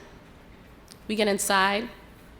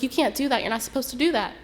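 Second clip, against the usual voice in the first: higher-pitched, urgent objection; acted protest in a raised pitch; 6 semitones higher than usual. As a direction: object as alarmed friends would. Friends protest her plan.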